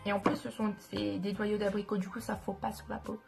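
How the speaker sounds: talking with a blocked nose; stuffy nose, thick sound. Real, not acted. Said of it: "je parle avec, euh, le nez bouché".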